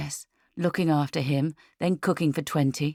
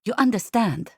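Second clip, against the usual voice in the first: put-on higher, French-accented English; Marie-Claude; 7 semitones higher, 4 dB louder than usual. A narrator's reading. Making sure Lucia follows, French accent. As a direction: press the point in a French accent. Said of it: "Marie-Claude is saying".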